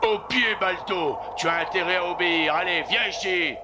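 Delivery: firm call to heel; stern command. Acted. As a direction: order the dog to obey. Musher orders dog Balto.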